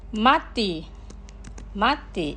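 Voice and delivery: careful, measured vocabulary model; slow pronunciation. Shown as a demonstration. Teacher models words for listeners to repeat, slowly. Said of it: "Los pronunciaré lentamente".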